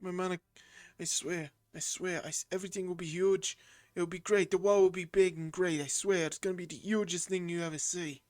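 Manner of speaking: a loose, lightly voiced Trump brag; Trump impression. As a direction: promise everything is huge, Trump style, half-hearted. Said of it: "That's not really a Trump voice".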